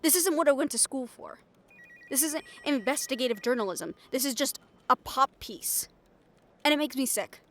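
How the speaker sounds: loud, bitter complaining; angry rant. Acted. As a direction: spit it out in disgust at the job. Angry rant at board member.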